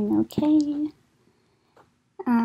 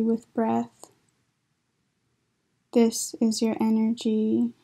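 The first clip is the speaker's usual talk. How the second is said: poetry reading. Acted. Poet reads words from medical literature as a poem, deliberate poetry reading. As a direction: recite in spaced phrases, drawing out the line ends.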